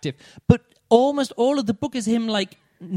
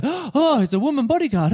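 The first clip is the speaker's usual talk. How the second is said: mock shock; 6 semitones higher than usual. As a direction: play a shocked courtier, hammed-up. Courtiers shocked by woman bodyguard.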